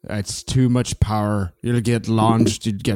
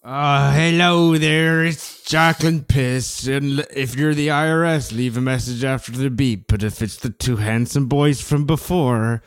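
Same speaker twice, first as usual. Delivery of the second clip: man doing a woman's voice; 2 semitones higher than usual. Acted. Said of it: "I don't think I can stop doing the voice".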